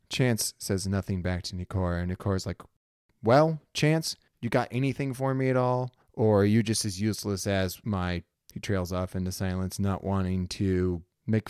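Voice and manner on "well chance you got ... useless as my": sharp, exasperated. Acted. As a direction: demand an answer, fed up. Frustrated captain to ship.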